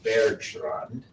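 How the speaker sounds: Bergstrand slowed right down with a German accent. Shown as a demonstration. Teacher naming a glacier hazard to students, slow mock German accent. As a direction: say Bergstrand slowly, the way a German would. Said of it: "if I can use my best German accent".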